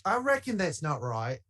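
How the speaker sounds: reply in a mock Australian accent. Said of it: "Southern accent plus Cockney equals Australian".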